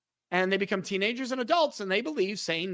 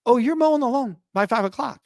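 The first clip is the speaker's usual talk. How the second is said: louder, higher, insistent parent; bossy parent; 5 semitones higher, 6 dB louder than usual. Retold or imitated. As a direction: overrule the kid with a commanding "mowing". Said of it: "And the parent said".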